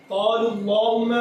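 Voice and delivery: slow "قال اللہم" with heavy "lloh"; thick lam. Shown as a demonstration. Teacher showing lam after pesh, thick lam. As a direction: round and darken the lam of "اللہم". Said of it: "کیوں موٹا پڑھ رہے ہیں؟".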